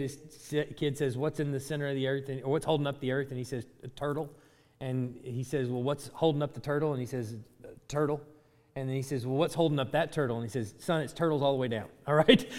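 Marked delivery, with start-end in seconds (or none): 1.2-11.9 retold joke. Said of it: "the dad that tells his kid".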